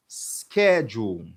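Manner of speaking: "schedule" said slowly and evenly, skeh-jool; slowed model word. Shown as a demonstration. Teacher repeats the word slowly for the class. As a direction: draw "schedule" out syllable by syllable. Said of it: "Mais stress syllable là".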